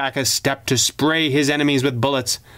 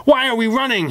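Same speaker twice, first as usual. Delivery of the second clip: high, raised question; calling out; 11 semitones higher than usual. Acted. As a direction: call ahead, puzzled. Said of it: "he called".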